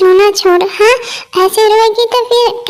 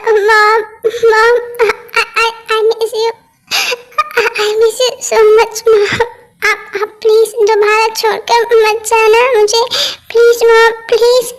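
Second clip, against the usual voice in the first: tearful pleading; 2 semitones higher than usual. Acted. Daughter crying to her returned mom, tearful pleading. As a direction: sob through the plea, begging her not to leave. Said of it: "हाँ, रो मत".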